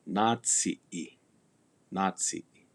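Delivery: natsi-i with a long stressed a; "natsi-i" said as NAA-tsi; lengthened vowel. Shown as a demonstration. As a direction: hold the a in natsi-i a little longer. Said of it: "pronounced a little longer".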